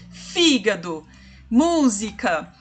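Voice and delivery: Fígado, música with FÍ and MÚ stressed; stress on the antepenult. Shown as a demonstration. Teacher gives proparoxítona examples, stressing first syllables of Fígado, música. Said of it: "a antepenúltima sílaba é".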